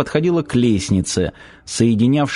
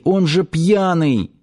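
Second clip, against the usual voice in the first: put-on pleading girl; 7 semitones higher, slower than usual. Lera pleads to release him.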